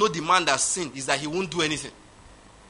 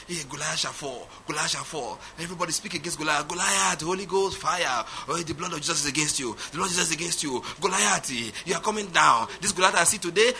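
mock prayer confession; 2 semitones lower than usual. Preacher mimics unbelieving man's confessions against Goliath, mock prayer.

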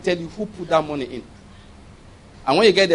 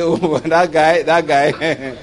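laughing devourer; 4 dB louder, much slower than usual. Retold or imitated. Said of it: "Devourer will say".

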